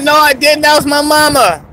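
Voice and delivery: high-pitched pleading retort; retold squeaky-high denial; mock protest. Acted protest to the girl.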